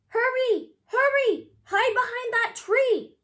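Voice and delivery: high loud urgent shout. Acted. Charles shouting warnings as a dog chases, loud. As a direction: warn him to hide fast. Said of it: "shouted Charles".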